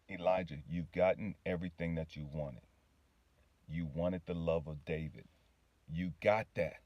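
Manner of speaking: low, soft voice of God; God's patient reminder. Retold or imitated. God reminding the man he got love, low and gentle. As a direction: bring it down low and quiet, reassuring. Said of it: "he said again".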